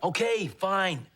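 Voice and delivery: loud, drawn-out grudging consent; exasperated surrender. Acted. Patient reluctantly agrees to the shot, exasperated. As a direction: give in with slow, heavy emphasis.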